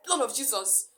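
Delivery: a mild mock shout; retold shout. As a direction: call out in mild alarm. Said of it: "That was how I shouted".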